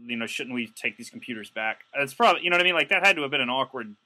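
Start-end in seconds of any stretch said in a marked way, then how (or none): 0.1-1.8 lightly voiced guilty thief pleading with the crew. One burglar urging the group to return computers, hushed. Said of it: "one guy ... must have thought".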